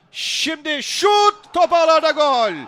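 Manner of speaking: loud, high goal scream; screaming football commentator. Real, not acted. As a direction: scream the goal at full volume. (çığlık atan futbol spikeri)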